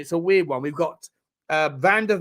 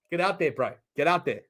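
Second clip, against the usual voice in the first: casual mock South African accent; jokey South African imitation; 4 dB quieter than usual. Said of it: "You can't do accents".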